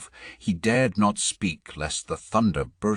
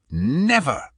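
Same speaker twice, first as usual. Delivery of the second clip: high loud refusal; bellowed; 9 semitones higher, 4 dB louder than usual. A narrator's reading. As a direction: bellow the word out. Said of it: "bellowed Thrym".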